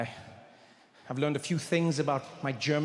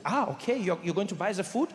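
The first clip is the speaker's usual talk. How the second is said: lightly voiced German friend; slight put-on German accent; Rolf; 2 semitones higher than usual. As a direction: offer help with a German accent. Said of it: "He's like".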